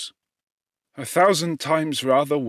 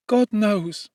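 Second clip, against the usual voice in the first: put-on higher young woman's voice, earnest and unsteady; a young servant girl protesting innocence, voice raised and wavering; pleading accused girl; 10 semitones higher, 5 dB louder than usual. A narrator's reading. Justine pleading before the court in a higher, wavering voice. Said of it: "spoke in an audible, although variable voice".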